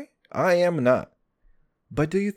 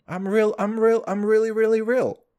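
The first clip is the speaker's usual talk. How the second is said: A rapper's quote; 6 semitones higher than usual. Retold or imitated. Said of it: "like fucking Kendrick Lamar".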